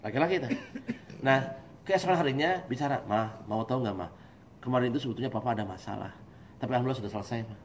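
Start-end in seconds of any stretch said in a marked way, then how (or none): 3.1-7.6 quiet, lowered voice; calm confiding husband. Acted. Husband opening up to his wife afterwards, calmly. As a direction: confide softly once calm. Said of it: "Tunggu dia tenang".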